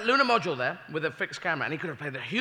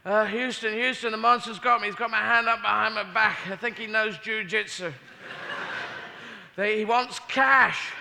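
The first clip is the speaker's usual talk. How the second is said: hostage radioing Houston; 4 semitones higher than usual. Acted. Astronaut radioing Houston captured.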